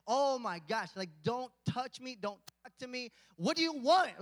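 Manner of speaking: irritated at being rudely woken; mock mad. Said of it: "like, you just get mad".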